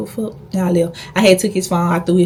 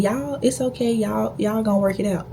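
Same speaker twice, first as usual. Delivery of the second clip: soft, raised-pitch soothing imitation; mock reassurance; 3 semitones higher, 5 dB quieter than usual. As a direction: imitate a mother softly smoothing things over. Imitates his mother soothing the couple.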